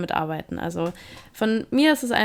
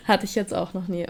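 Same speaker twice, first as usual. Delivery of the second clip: words through a laugh. Real, not acted. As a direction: say it while still laughing. Still laughing after the surprise.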